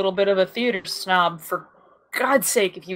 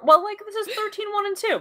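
whiny protest; 11 semitones higher than usual. Real, not acted. Half-joking protest over episode numbering.

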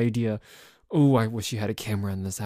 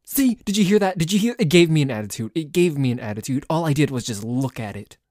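indignant outburst; 3 semitones higher, 5 dB louder, faster than usual. Acted. Indignant after the cat meows.

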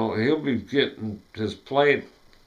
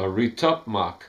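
Retupmak as computer backwards; reversed. Shown as a demonstration.

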